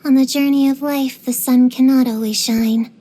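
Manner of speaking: grave, poetic delivery; theatrical lament. Acted. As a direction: declaim it like a tragic monologue. Theatrical lament about life's sorrows.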